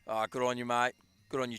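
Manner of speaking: put-on light Australian accent on "good on you, mate". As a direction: greet him like a laid-back Aussie. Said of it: "Michael Curtis from Australia".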